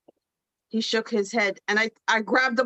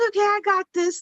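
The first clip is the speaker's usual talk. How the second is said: retold confidence; 8 semitones higher, faster than usual. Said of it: "And I was like".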